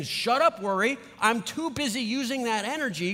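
firm mock rebuff; dismissing worry. Talking back to worry.

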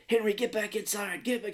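high-pitched mock yell, no real volume; hammed-up screechy order at moderate volume; Betty White screaming. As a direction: imitate a nagging wife yelling, pitched high. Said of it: "Betty White's just screaming at him".

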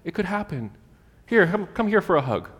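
high, sing-song reassurance; comforting parent. Acted. Parent comforting a crying kid, casually reassuring. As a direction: soothe a child, pitched high and light. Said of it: "you comfort them".

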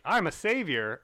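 high, loud mock-heroic proclamation; Mysterio. Podcaster imitating a great villain portrayal, hammed-up and loud. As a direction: announce yourself as a weird comic-book villain. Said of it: "he played this, the really weird".

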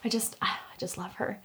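airy adoring coo; gushing. Retold or imitated. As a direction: swoon over her in a high voice. Gushing over a photo, mock quote.

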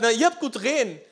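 acting out a man crying out for his miracle; bellowing. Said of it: "er brüllte noch lauter".

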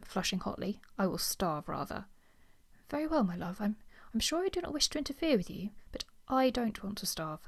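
reading a novel aloud, lightly voicing the characters; story reading. Reading a period novel aloud to friends, lightly acted. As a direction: read the Regency scene to the book club.

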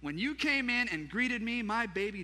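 high, loud outburst of honor; acted joyful cry of welcome; exclaiming. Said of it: "a loud cry and exclaimed".

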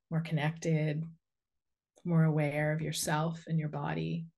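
unhurried guiding voice with long pauses; guided meditation. Real, not acted. Inviting listeners to send a cord into the earth, guided meditation. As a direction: lead them gently through grounding, phrase by phrase.

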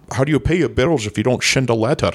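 lightly slurred Scottish star, s turning to sh; comic impression with slushy s sounds; Sean Connery. Promising co-hosts a comeback, hammed-up Connery impression. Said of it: "What is a shend?".

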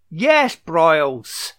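slow, drawn-out hint of a French accent; mock French accent. Cheering on a TV boss with a light French accent. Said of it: "every time you say that, Broyles is French".

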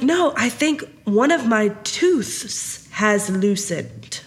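lightly voiced little kid, slow; a hint of a six-year-old, taking it slowly; imitated young child. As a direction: imitate a child's careful, drawn-out wording. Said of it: "This is how he said that".

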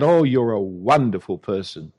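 mock flattery. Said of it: "the New Age kind of message".

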